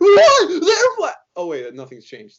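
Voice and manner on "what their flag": put-on voice breaking into very high, loud, cracking shriek. Show how you could hear emotion build in his voice, imitating a voice cracking with rising emotion. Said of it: "You could see it in his voice... cracks his voice".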